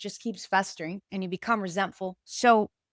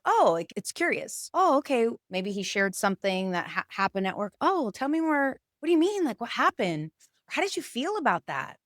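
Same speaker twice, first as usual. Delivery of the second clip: curious, interested; 3 semitones higher than usual. Retold or imitated. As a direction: lean in and ask with real interest. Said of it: "It sounds more like".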